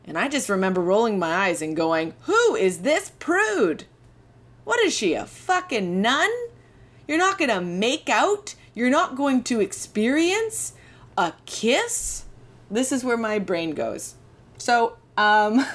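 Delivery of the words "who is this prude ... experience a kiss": high, scoffing disbelief; mock indignation. Rolling her eyes at the classmate, high scoffing disbelief. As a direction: scoff at the prude, pitch way up.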